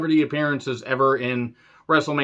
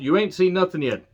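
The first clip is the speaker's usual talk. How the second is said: Vince impression; 6 semitones higher than usual. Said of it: "Doing a Vince and Savage impression".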